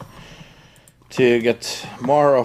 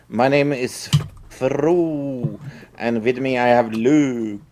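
put-on Norwegian accent. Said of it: "I can speak very, like, uh, Norwegian like this".

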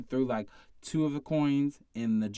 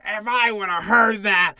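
much higher and louder, slow indignant outburst; retelling coworkers' outrage, loud and slow; outraged bartenders; 7 semitones higher, 11 dB louder, slower than usual. Retold or imitated. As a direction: play the bartenders losing it, loud and drawn out. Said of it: "everybody was like".

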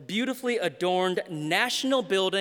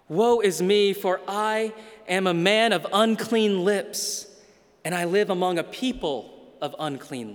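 crying out. Acted. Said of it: "And he cries".

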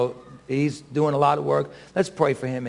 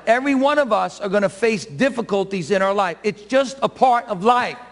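raised-pitch, steady sermon delivery; preaching; 8 semitones higher than usual. Real, not acted. Pastor preaching to the congregation about life's trials, earnest preaching. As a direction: preach it with insistent, repeated phrases.

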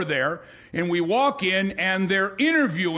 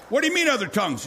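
baffled question; 2 semitones higher, much faster than usual. Retold or imitated. Detective baffled by tongues.

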